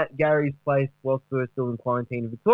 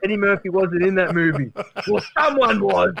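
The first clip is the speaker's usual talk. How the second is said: higher, hyped boasting; mock excited Duck; 3 semitones higher than usual. Duck boasting to the panel about his movie, higher and excited. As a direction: brag like a washed-up star.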